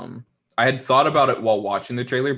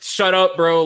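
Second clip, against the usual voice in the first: mock snap, much higher and louder; retold annoyed outburst; 8 semitones higher, 8 dB louder, slower than usual. Telling the annoying actor off, a mock annoyed outburst. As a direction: fire back at him in fake annoyance. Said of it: "And I'm like".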